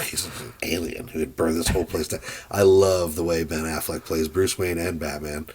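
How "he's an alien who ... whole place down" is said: lightly voiced disgust, spitting out alien. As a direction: sneer at the word alien. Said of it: "The way he says alien in that line read is with such disgust".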